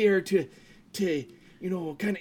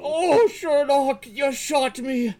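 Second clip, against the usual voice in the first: loud, slow mock agony; drawn-out, higher cry of pain; wounded groan; 5 semitones higher, 4 dB louder, slower than usual. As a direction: groan it out as if shot. Playing Lestrade, shot, inside the hound.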